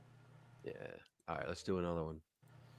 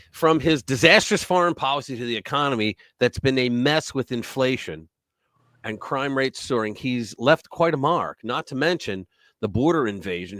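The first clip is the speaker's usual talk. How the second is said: opinion read. Acted. Reading commentary script.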